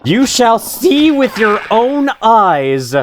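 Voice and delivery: villain voice. Acted. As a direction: intone it like a dark overlord. Reading the villain's game text.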